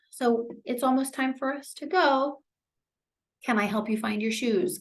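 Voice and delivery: light, easygoing gentle prompt; casual reminder. Acted. Caregiver reminding someone it's time to leave, casual gentle prompt. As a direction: nudge them along without any pressure.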